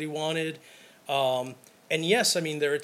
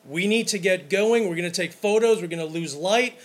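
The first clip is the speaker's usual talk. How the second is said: loud, pushy call to get everyone moving; calling the group to move; 3 semitones higher, 6 dB louder than usual. Retold or imitated. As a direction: raise the voice like rounding up a wedding party. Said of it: "I will voice my opinion".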